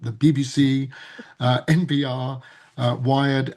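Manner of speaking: "the B B C" in a light posh British accent; mock British accent. Shown as a demonstration. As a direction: say "the B B C" like a BBC newsreader, British accent. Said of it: "I'll say that again with my best British accent".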